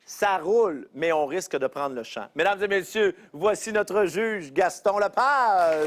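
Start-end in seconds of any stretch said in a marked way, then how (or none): 2.3-5.9 slow, drawn-out name call; announcer intro. Acted. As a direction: present the judge grandly. Host introduces the judge.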